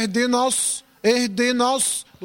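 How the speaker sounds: wrong ص in الص, said with pursed lips; rounded-lip sad. Shown as a demonstration. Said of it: "بتضم شفايفك ليه".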